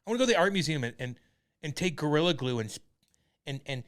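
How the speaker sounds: mock a precious, complaining activist; stammering, put-on whine of a protester; whiny activist. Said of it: "They're like".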